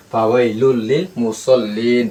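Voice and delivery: slow, stretching মুসল্লিন at the stop; slow stretched recitation. Shown as a demonstration. Teacher to students, reciting with the long pause at the stop, slowly. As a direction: lengthen the last vowel of মুসল্লিন before stopping. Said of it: "অফ হইলে কি হবে?".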